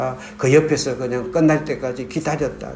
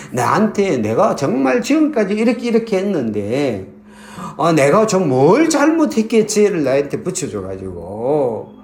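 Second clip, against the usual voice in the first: raised, anguished complaint to God; pleading outcry, pitched up; retold tearful protest; 3 semitones higher than usual. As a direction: imitate a distraught prayer without real sobbing. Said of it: "하고 막 울고 있으니까".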